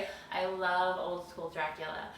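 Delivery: talking through fake fangs; words round plastic fangs; wearing vampire fangs. Real, not acted. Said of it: "put my fangs on for this".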